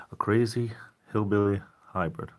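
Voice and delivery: hushed, breathy whisper of the name. Real, not acted. Reading a viewer's odd username in a whisper. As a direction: whisper it like a secret.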